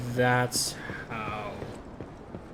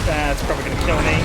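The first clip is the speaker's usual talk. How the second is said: loud exclaim; 9 dB louder, faster than usual. Real, not acted. Taking a big boss hit.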